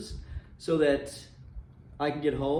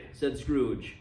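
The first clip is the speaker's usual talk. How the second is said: measured storytelling voice, reading a classic aloud; story narration. A narrator's reading. Narrator reading A Christmas Carol to listeners, storytelling voice. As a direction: tell it like a fireside ghost story.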